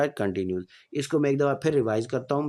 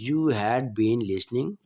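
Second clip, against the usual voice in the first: slow, clear dictation pace; slow classroom example sentence; slow example read; 4 semitones lower, much slower than usual. Shown as a demonstration. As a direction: spell it out slowly for students. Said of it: "teacher reading tense example".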